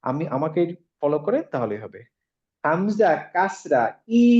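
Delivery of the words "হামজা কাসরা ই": slow, clear model for the class to repeat; slow teaching drill. Shown as a demonstration. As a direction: say it slowly so students can copy. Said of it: "আমার সাথে সবাই বলেন". (ধীরে ধীরে শিখিয়ে বলা)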